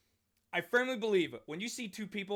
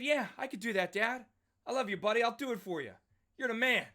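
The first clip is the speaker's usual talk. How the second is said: mock cheerful son; 6 semitones higher than usual. Retelling agreeing with dad.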